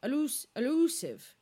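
shaky tries at Welsh "elusive"; attempted Welsh accent. Shown as a demonstration. Host practising a contestant's word, faltering Welsh accent. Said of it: "Your Welsh is actually needing some work".

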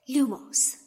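spell incantation. Acted. Spell cast in dark tunnel.

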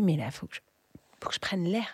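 hushed, breathless inner voice; breathless whisper. Retold or imitated. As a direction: whisper it like you're gasping for air. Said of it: "et je me suis dit".

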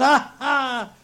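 high, hearty acted laugh; splendid laugh. A narrator's reading. Scrooge out of practice for years, laughing splendidly. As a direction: burst into a long-unpractised laugh. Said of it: "it was a splendid laugh".

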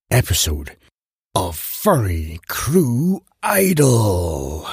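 deep booming intro announcer. Pretend. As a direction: hype up the show like an announcer. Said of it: "Engage intro announcer voice".

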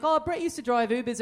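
lightly voiced girlfriend, casual; a hint of the girlfriend telling a story; quoting girlfriend. Retelling the girlfriend's Uber story, light and casual. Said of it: "she's like".

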